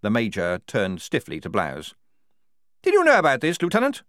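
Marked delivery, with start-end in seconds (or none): 2.8-4.0 high, loud officer's demand; sharp raised-voice question; barked. A narrator's reading. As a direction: bark it at a subordinate. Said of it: "he barked".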